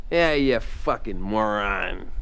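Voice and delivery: slow, low drawn-out fucking moron; a lightly voiced lazy sneer; Daryl's moron. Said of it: "the way he would say moron".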